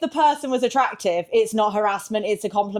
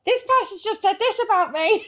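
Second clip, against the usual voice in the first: a lightly voiced giddy friend, higher, laughing through it; mock excited friend, laughing; 10 semitones higher than usual. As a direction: quote the gossip with a giggle. Friend's excited messages quoted.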